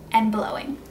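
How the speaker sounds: blowing through clenched teeth; breath pushed through a grin; whispered blowing. Shown as a demonstration. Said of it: "The first way is by biting down".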